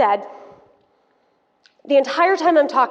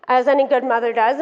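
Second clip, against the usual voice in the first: ordinary talk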